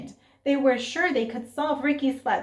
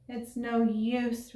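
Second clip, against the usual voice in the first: sighed; 4 dB quieter, slower than usual. Acted. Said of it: "Ricky sighed".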